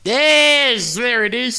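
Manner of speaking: high, excited cheer; delighted approval. Real, not acted. Host cheers co-host's attempt at the slang, high and delighted.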